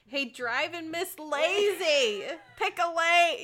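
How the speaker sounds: loud, slow yell at drivers; road rage yelling. Retold or imitated. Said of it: "And then she says".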